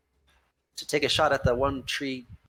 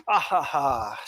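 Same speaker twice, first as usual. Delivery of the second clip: mocking villain laugh. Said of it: "a mocking villain laugh".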